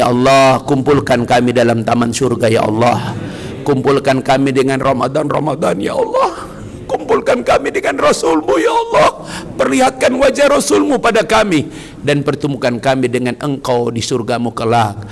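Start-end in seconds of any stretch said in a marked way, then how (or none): 5.8-11.7 fervent prayer. Real, not acted. Rising prayer invocation.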